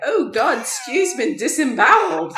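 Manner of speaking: loud, high exclamation through laughter; high, hammed-up shock breaking into laughter; mock horror. Acted horror at a gory scene.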